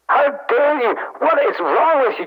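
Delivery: affronted outburst, not shouted; indignant. Acted. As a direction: take offence, pitch jumping up. Scot offended by England remark.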